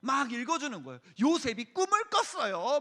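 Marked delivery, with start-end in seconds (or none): 1.2-2.8 put-on raised-pitch reading to children; animated kids' story voice; storybook reading. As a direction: read it out like a Bible picture book. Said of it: "막 이러면서 읽어주고요".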